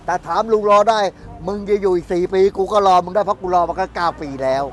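loud, insistent outburst; real impassioned loud protest; heated retort. Real, not acted. Heated vox-pop retort about waiting.

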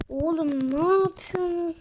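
exasperated shout. Real, not acted. Gamer yelling at his teammates, fed up and loud. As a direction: snap at useless teammates.

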